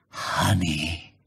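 low, hushed secret word; deep whisper. Acted. Bear tells his friend the secret plan, in a low whisper. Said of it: "said in a deep whisper".

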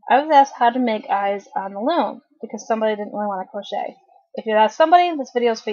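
talking around a cough drop in the mouth. Real, not acted. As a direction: mouth full, words rounded by a lozenge. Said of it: "I have a cough drop in my mouth".

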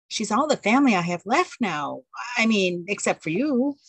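a nervous wife fretting about her aunt; anxious young wife. Acted.

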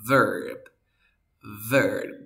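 "verb" modelled with an E vowel; teacher drilling "verb", vowel like E. Shown as a demonstration. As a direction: say "verb" emphatically with an E sound. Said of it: "se pronuncian así".

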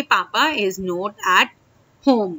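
slow demo. Shown as a demonstration. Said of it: "तो आप बोलेंगे".

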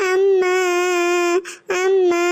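put-on a little boy crying out for his mother; calling mom.

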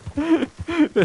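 high burst of laughter; real amused laugh. Real, not acted. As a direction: laugh out at the fall. Laughs at horse falling.

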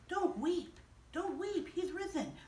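soft, hushed angel reassurance; gentle comfort. Acted. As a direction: soothe her softly. Angels comfort weeping Mary.

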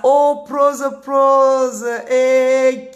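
high, loud call of the name; excited greeting. Real, not acted. A streamer calls out to a viewer she recognizes, excited.

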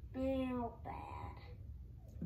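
whispered complaint. Real, not acted. Boy whispering that turnips smell bad to teacher. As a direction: breathe it out under your breath.

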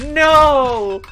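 sudden loud high no; emphatic no. Real, not acted. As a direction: blurt it out sharply. Emphatic outburst about gym.

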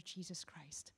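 soft hushed name; reverent whisper. Real, not acted. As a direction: breathe the name with awe.

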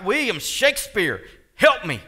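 acted cry for help. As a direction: call out to someone who can't answer. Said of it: "they might cry out".

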